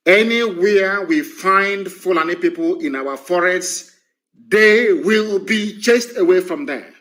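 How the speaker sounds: slow, deliberate warning, spelled out; very slow and clear. Real, not acted. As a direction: make it very clear, word by word. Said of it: "I'm speaking very slowly".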